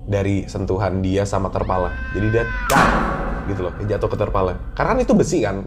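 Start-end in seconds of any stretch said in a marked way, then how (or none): 2.7-2.9 short, sharp "tak" impact; imitated impact noise. Storyteller mimicking her hitting the tarp, sharp knock. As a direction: make the sudden knock of a hit. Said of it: "ada suara kenceng".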